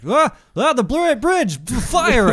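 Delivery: high-pitched, loud comic yelling; mock frantic firing. Imitating soldiers firing at nobody, mock frantic yell. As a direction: yell hysterical battle orders in mockery. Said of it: "They're just like".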